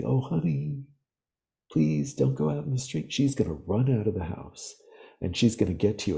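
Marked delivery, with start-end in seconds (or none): 0.0-3.1 gentle mother. Retold or imitated. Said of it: "she's not gonna say".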